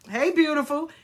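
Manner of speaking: polite, gentle brush-off; kindly let-down. Shown as a demonstration. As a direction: turn them down kindly, softening to the end. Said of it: "you just kindly say".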